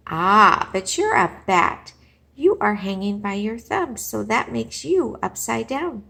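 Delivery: loud, forceful bird's reply; loud, know-it-all retort; bold objection. Acted. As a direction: argue back loudly. Creature argues with Stella Luna.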